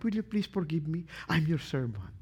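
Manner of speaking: softly asking forgiveness; said humbly to your spouse; gentle request. Shown as a demonstration. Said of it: "You never tell your husband".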